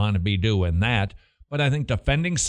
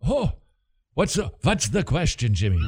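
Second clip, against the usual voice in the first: put-on Jewish accent; 4 semitones higher than usual. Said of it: "your Jewish accent".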